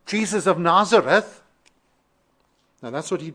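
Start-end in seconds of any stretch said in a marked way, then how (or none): 0.1-1.4 raised, louder quote of a beggar's call; mild crying out. Retold or imitated. Preacher voices what the beggar did not say, crying out. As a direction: lightly imitate calling out a name. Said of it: "when the blind beggar cries out".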